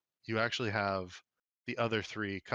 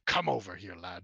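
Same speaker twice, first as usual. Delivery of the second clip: scowling; 3 semitones lower than usual. Acted. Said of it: "a bit of a scowl on his face and goes".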